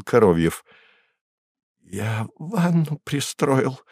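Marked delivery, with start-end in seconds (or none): 1.8-3.8 teeth chattering. Acted. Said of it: "стуча зубами, кричал".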